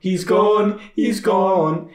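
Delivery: loud, high broad Scottish singing wail; broad Scottish accent. Retold or imitated. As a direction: belt it out in a thick Scottish accent. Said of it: "man with a thick Scottish accent going".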